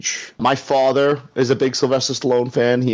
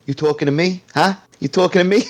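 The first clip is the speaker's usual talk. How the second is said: taxi driver impression, pitched up; Robert De Niro; 7 semitones higher, faster than usual. New Yorker playing a taxi driver to his co-host, De Niro impression. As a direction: challenge them like a movie tough guy. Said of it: "if I was Robert De Niro taxi driver".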